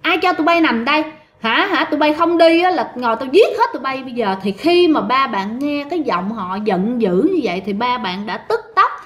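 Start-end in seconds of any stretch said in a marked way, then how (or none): 0.0-4.3 raised, mildly angry ghostly voice; angry retold threat. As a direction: threaten the trespassers, voice a bit higher. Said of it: "giọng nói này rất là giận dữ". (giọng giận dữ đe dọa)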